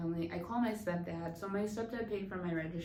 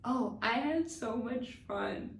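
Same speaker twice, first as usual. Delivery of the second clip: drawn-out, higher and louder; lightly hammed-up enthusiasm; gushing retold reply; 5 semitones higher, 3 dB louder, slower than usual. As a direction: gush it slowly to a friend. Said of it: "and I'm like".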